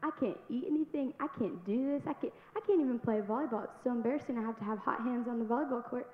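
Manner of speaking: a touch of retold frustration; frustrated. Complaining about the diet and volleyball, mild frustration. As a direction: vent it, mildly exasperated. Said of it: "And I was so frustrated".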